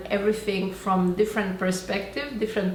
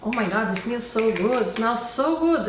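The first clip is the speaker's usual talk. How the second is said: mock delight; faster than usual. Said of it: "I open the cream".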